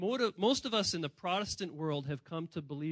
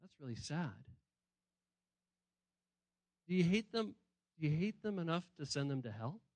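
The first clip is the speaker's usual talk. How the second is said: pastor's quiet reply; 3 semitones lower, 7 dB quieter than usual. Retold or imitated. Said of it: "And I say".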